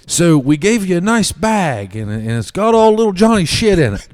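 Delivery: high, loud, urgent; coach announcement. Retold or imitated. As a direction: grab their attention quickly. Coach speech.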